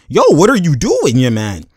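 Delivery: high, loud shout of disbelief, dropping at the end; exasperated shout. Retold or imitated. Player clapping for the ball in vain, exasperated shout. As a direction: call out a teammate's blunder, loud and high. Acting out KD's angry complaint.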